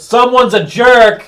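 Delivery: high, loud, drawn-out accusation; pointed jab. Acted. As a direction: call it out slowly for all to hear. Loud jab at the other character.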